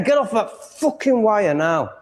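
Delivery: yelling at the cat to get off the wire; angry order. Real, not acted.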